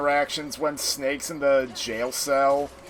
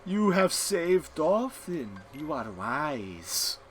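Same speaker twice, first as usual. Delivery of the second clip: Psycho Mantis voice; 2 semitones higher, much slower than usual. Retold or imitated. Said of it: "That's my bad frickin' Psycho Mantis impression".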